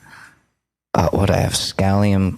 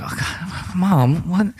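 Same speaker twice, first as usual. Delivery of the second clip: uncle; 9 semitones higher, slower than usual. Retold or imitated. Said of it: "And he's like".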